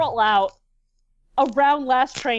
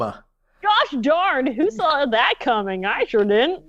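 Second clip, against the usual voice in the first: gee-whiz sarcastic innocence; wholesome 1950s kid; 2 semitones lower, slower than usual. Pretend. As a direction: play it like a corny old sitcom kid. Sarcastic mock at cliché.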